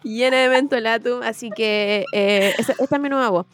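stuffy nasal voice from a cold. Real, not acted. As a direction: talk through a blocked nose. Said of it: "esa voz gangosa".

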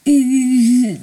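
hesitant, halting angel; squirming excuse. A narrator's reading. Angel squirming when caught skipping school. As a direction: stammer and stall, caught out. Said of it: "kręcił się w miejscu".

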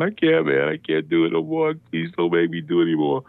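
high, strained mock-crying; acted tearful pleading; re-enacted crying plea. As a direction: imitate yourself begging through tears, dropping at the end. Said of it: "I'm just crying".

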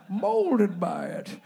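"molded by it" dragged out slowly in the villain voice; Bane voice. Acted. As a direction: draw out "molded by it" slowly and heavily. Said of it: "this is the Bane accent one".

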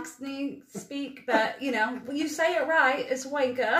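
put-on British accent, rising in pitch to instruct; imitated British accent. British seatmate teaches correct slang, imitated British accent. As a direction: coach the word in an Englishman's British accent. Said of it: "it's more Cockney".

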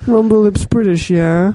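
put-on British show title; British accent. Guest names the British edition, British accent. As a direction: announce it as a mock Brit. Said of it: "we should have done Rumble Lips British".

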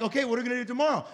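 quick, excited scheming mouse voice; Pinky and the Brain. Retold or imitated. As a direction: rattle it off like a cartoon mastermind. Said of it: "like Pinky in the Brain".

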